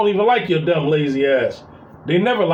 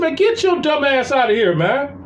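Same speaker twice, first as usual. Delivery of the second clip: raised-pitch telling-off at usual volume; retold angry dismissal; 6 semitones higher than usual. Stepdad retells sending stepson away, indignant. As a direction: act out throwing someone out, exasperated.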